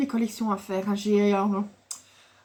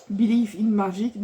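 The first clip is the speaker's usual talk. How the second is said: bad English accent; slower than usual. Real, not acted. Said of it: "mon accent est pourri".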